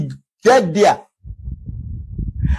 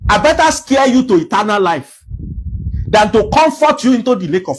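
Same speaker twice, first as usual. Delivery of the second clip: preacher's shout; 3 semitones higher than usual. Real, not acted. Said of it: "I'm shouting".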